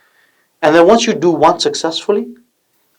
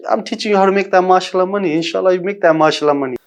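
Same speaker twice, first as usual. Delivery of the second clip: hyped, fast catchphrase delivery; tech bro; 4 semitones higher, faster than usual. Acted. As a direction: sell it like a hype-man flex. Playful catchphrase plug for channel.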